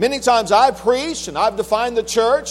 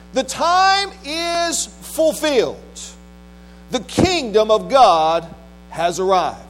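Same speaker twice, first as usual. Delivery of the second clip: measured, solemn Bible reading from the pulpit; scripture reading; 3 semitones lower than usual. Acted. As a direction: read scripture out with weighty pauses between phrases. Reads scripture aloud to congregation.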